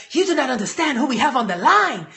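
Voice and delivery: put-on light African accent, emphatic; hint of a Senegalese accent, insisting; imitating an African accent. Imitating his Senegalese director hyping her, lightly accented. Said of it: "He's African, right?".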